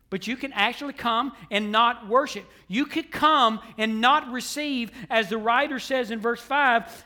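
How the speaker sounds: insistent preaching, key words punched. Real, not acted. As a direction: drive the point home to the congregation. Preaching at full force.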